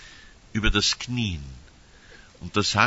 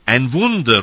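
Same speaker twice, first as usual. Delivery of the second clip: loud, higher cry of "Ein Wunder"; shouted cry; 4 semitones higher, 11 dB louder than usual. Retold or imitated. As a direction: call out "Wunder" like a crowd seeing a miracle. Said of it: "rufen die einen".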